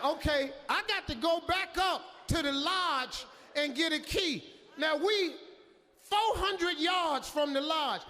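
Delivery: frantic, scared in the dark; panicked. Retold or imitated.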